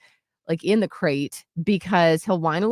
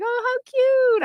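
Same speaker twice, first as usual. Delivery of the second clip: high sweet gush; high gushing owner. Retold or imitated. Restaurant owner cooing at puppy, high and sweet. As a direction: coo it high like it's adorable. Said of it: "was like".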